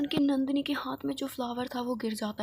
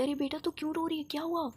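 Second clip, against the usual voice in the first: higher, quicker, worried mother asking why she cries; 5 semitones higher than usual. Acted. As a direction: rush in with a mother's alarm. Mother sees daughter crying. (ऊँची, तेज़, घबराई हुई माँ की आवाज़)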